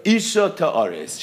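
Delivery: Ta'ares drawn out slowly for emphasis; stress on Ta'ares. Shown as a demonstration. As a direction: lean slowly on the word Ta'ares. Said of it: "Emphasis Ta'ares".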